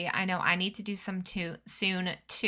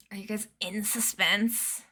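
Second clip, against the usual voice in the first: whispered, teasing suspense; spooky whisper. Shown as a demonstration.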